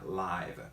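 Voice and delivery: "live" con diptongo, como "laiv"; pronunciación de adjetivo. Shown as a demonstration. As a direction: di "live" rimando con "five". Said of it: "esto se pronuncia". ("live" pronunciado "laiv", alargado)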